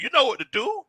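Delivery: coach. Retold or imitated. Friend retells coaching his slumping buddy, mock coach. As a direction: play the coach giving counsel. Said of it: "I'm sounding like a coach".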